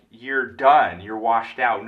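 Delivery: loud, sharp, accusing yell at a washed-up dad; retold yell. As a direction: throw it at him like an angry daughter. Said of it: "yells at Michael Keaton".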